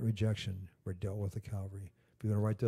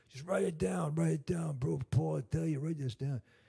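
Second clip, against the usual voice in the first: put-on tough-guy Boston mob accent, pitched up; 7 semitones higher than usual. Retelling a phone call to the hospital, the caller insisting: Dave's Boston mafia accent. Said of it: "he got this Boston mafia accent".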